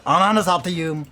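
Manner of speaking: loud slow curse. Real, not acted. Exasperated curse.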